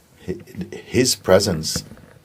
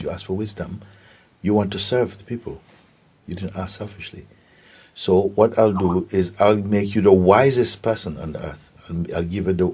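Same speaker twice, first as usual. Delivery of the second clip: higher-pitched, emphatic pronouncement; God granting a wish; 4 semitones higher, 3 dB louder than usual. Acted. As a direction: grant it generously, pitch lifted, stressing key words. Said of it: "God says".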